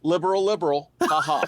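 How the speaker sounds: hammed-up secondhand impression; Wally. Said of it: "Here's Jess's impression of Wally".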